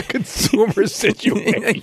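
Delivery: high, drawn-out teasing repeat; mocking echo. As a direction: tease him by parroting it slowly, way up high. Co-host mockingly echoes his phrase.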